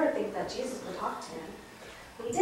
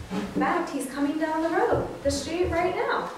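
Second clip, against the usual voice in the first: excited, raised pitch, breaking good news; 6 semitones higher than usual. Acted. Man breaking news to blind Bartimaeus, excited. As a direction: tell it with rising excitement.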